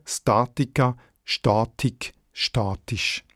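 Statica, Statik, statisch each stressed on STA-; same first-syllable stress. Shown as a demonstration. Editor letting listeners hear it, STA- stressed in Statica, Statik, statisch. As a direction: set the three words apart, accenting STA- in Statica, Statik, statisch. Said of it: "ist die Betonung gleich geblieben".

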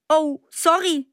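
grinning apology. Acted. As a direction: apologise lightly through a grin. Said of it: "sagt der Luis und grinst".

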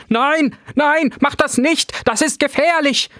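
panicked warning. A narrator's reading. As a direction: stop him before it's too late. Professor warns Ben in panic.

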